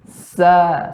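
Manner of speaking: SA with long, light hissed S; careful model "Sa"; demonstrated sa. Shown as a demonstration. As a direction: draw out "Sa", thin and open. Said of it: "Harus diperhatikan".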